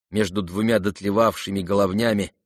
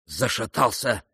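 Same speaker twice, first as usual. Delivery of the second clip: usual speaking voice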